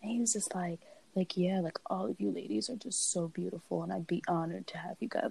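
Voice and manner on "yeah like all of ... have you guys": breathy whispered imitation of a smooth guy; hushed mock come-on; whispered quote. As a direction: whisper it like you're retelling a creep's pitch. Guy flattering the ladies.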